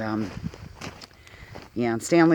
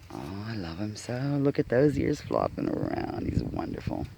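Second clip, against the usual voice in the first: tender coo; 4 semitones lower, 7 dB quieter than usual. Real, not acted. Cooing over the mule.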